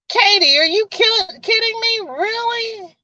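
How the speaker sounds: high, incredulous "are you kidding me"; surprised disbelief. Real, not acted. Host reacting to Katie's news, incredulous and high. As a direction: shoot the voice up in amazement.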